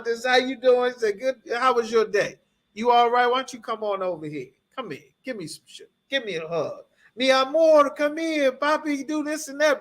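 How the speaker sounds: mock-sweet girlfriend cooing Mi amor; sweet welcoming woman. Imitating a loving woman greeting her man.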